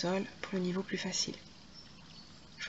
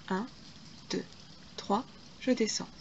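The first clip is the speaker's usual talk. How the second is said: counting workout reps; 7 dB quieter than usual. Shown as a demonstration. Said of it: "Trois temps, je monte".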